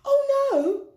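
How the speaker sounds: high, loud, crying little "oh, no"; a tearful squeak of protest; tiny mouse protesting. Acted. Mouse refusing Hamilton's kindness, high and teary.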